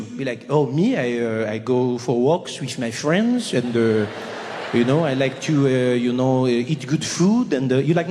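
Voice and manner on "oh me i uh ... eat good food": a light French drawl, lower and slow; laid-back Parisian musing between uhs; lightly voiced carefree Frenchman; relaxed French person. Imitates relaxed French person answering.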